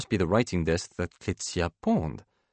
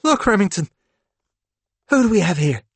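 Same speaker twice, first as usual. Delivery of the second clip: put-on high, playful talk to a child; singsong parent enthusiasm; coaxing excitement; 12 semitones higher, 5 dB louder, faster than usual. A narrator's reading. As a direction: build up a surprise for a little kid. Father coaxing young son.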